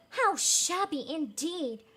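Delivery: slow, flattering echo; lightly voiced councilors; fawning councilors. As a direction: echo the mayor like a yes-man. Councilors echoing mayor.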